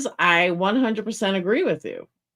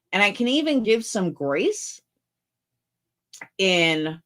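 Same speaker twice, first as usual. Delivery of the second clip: wearing a retainer. Real, not acted. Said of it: "sorry, my retainer is, like, making me have saliva".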